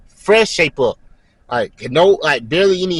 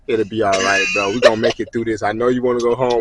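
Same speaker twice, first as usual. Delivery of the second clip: lower, gentle reassurance; lightly acted buddy's reassurance; consoling; 5 semitones lower than usual. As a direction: comfort a homesick friend. Others consoling him as he cried.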